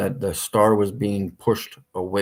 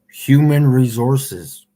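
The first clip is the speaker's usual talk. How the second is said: imitating phone menu voice; 4 semitones higher, 8 dB louder, slower than usual. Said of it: "Notice what she did".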